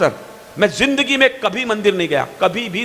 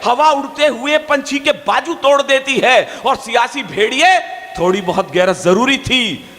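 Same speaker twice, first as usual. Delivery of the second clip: poetry recitation; 3 semitones higher than usual. Acted. Poet reciting political couplets to an audience, declamatory verse.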